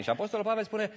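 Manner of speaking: normal talking voice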